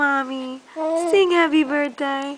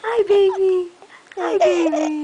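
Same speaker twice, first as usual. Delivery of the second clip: laughing coo; 3 semitones higher than usual. Real, not acted. Laughing while cooing.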